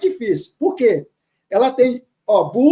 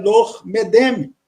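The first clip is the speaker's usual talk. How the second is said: 1 slow reading; much slower than usual. Shown as a demonstration. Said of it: "Aí ele fala".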